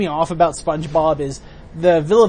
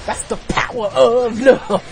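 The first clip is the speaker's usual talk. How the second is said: laughing; 6 semitones higher, 3 dB louder, slower than usual. Real, not acted. Quoting song, laughing.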